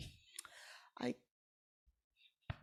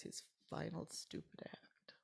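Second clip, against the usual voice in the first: hushed pained words; 6 dB quieter than usual. Real, not acted. Mother dreading the memory of the suicide, whispered.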